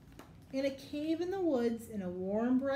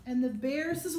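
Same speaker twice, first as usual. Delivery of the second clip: building up; 6 dB louder than usual. Acted. Bear breaks the pattern.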